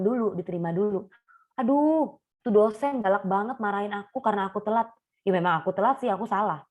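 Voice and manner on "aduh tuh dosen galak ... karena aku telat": higher, whining about the strict lecturer; whiny complaint.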